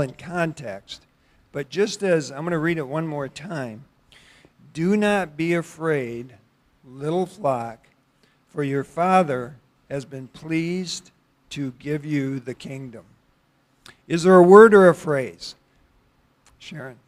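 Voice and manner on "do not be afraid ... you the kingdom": slow, measured verse reading; scripture reading. Acted. Preacher rereads the verse so listeners can wonder, scripture reading. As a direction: let each phrase of the verse stand alone, slowly. Reads the verse one more time.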